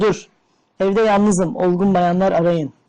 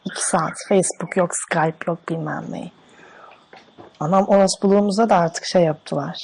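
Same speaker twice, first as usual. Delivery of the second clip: man doing a woman's voice. Pretend. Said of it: "Oğlum ben kadın sesi yapamam ki".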